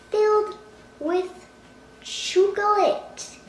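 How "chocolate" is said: "chocolate" stretched out as "CHOO-guh-lit"; deliberate odd pronunciation. Pretend. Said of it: "Yes, I said chocolate".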